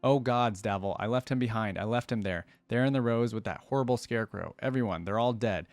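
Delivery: hushed, haunted storytelling read; dramatic story narration. Acted. Streamer reading a horror story to viewers, dramatic narration. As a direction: tell it like a shaken survivor in the dark. Reads a dark story aloud.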